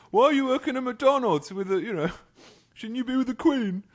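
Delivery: high, loud imitation of baffled customers; laughing, high-pitched mock customer voice; mock incredulous customer. Customers teasing the posh worker at McDonald's, mock incredulous. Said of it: "people would say".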